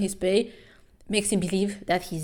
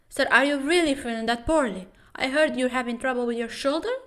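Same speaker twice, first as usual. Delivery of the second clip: higher, timid worried doctor voice; voicing Kim Dan; 6 semitones higher, faster than usual. Kim Dan asking the boxer, higher timid voice. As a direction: play the anxious doctor asking gently.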